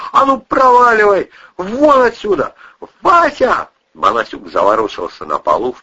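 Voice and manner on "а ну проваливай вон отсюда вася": screaming at him. A narrator's reading. Кристина кричит, зовёт мужа.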